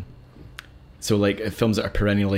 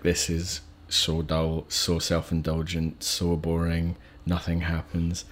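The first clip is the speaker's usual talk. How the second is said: lower, softer, slow list of gripes; bored complaint; 3 semitones lower, 5 dB quieter, slower than usual. Retold or imitated. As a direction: imitate underwhelmed viewers, dragging it out. Voicing bored viewers' complaints.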